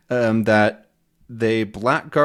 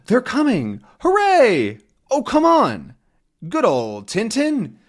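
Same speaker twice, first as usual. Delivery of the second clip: excited cheering; 10 semitones higher than usual. Acted. Crowd on the dock cheering Tintin's return, excited. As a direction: cheer them home with joy.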